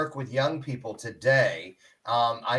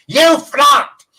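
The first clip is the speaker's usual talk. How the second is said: kids' mocking yell; high, loud schoolyard taunt; taunting shout; 13 semitones higher, 14 dB louder than usual. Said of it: "no one said held back. The kids didn't".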